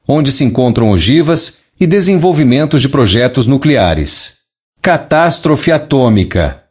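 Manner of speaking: even synthetic neural TTS voice; a message read by a speech synthesizer. Real, not acted. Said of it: "usando um sintetizador de voz neural para ler a mensagem canalizada original". (voz de sintetizador neural)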